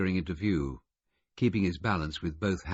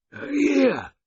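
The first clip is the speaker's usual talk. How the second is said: loud, high croaked command; croaking order; 10 dB louder than usual. Acted. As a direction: bark it like an order. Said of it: "he said, croaking ... like an order".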